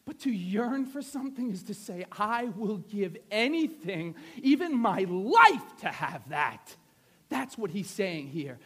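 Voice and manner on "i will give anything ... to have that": slow declaration with LIFE punched louder; drawn-out, impassioned vow; fervent yearning. Acted. Voices what yearning says.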